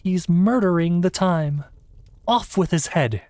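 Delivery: loud, high royal bawl. Acted. Queen bawls at the Hatter, loud and high. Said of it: "bawled out".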